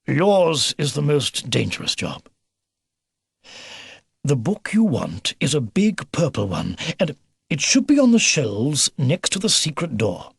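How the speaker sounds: lightly voiced, earnest old briefer; old beaver commander. Old beaver giving Philip his task, mildly grave. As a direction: lay out the task carefully.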